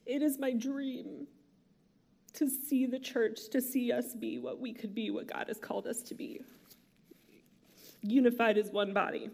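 gather yourself and go on softly; emotional. Real, not acted. Pastor apologizing and going on, tearful and quiet. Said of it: "I'm more emotional apparently today than usual".

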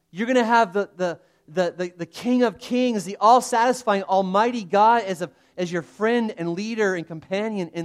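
loud, high, fervent build-up; exuberant, preacherly promise; excited promise. Acted. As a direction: sell the adventure with rising zeal. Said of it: "just this look of excitement".

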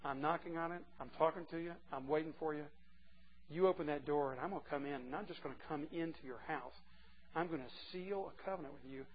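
soft, quiet pleading; tender invitation. Pretend. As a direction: gently plead through the door. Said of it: "He says".

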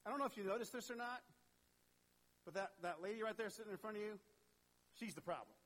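bossy Martha. Acted. Martha bossing Jesus about her sister, fast tattling. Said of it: "She's like".

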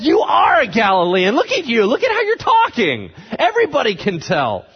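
loud, very high, incredulous crowd; shouted accusation. Acted. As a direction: yell it out, climbing to a high pitch. Crowd shouts accusation at denying Peter.

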